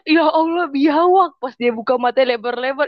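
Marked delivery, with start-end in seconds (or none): 0.1-1.4 high startled shriek; startled cry. Retold or imitated. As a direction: cry out in sudden fright. Sister shrieks at monitor lizard.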